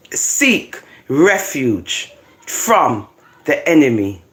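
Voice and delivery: solemn, deliberate Bible reading; measured declamation; scripture reading. Acted. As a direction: read the prophecy out with weighty pauses. Reads scripture aloud.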